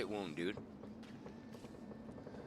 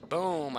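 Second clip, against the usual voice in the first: drawn-out boom, pitched up and falling; imitated gunshot; 6 semitones higher, 4 dB louder than usual. Hunter telling of dropping the deer, imitated gunshot. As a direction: voice the rifle going off. Imitates second rifle shot.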